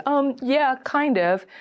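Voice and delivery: high, noncommittal hedge; hesitant answer. Acted. Date asked if this is a date, hesitant answer. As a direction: hedge it, starting high and dropping off. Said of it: "And they can say".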